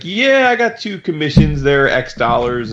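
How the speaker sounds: Matt. Retold or imitated. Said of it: "Matt's like".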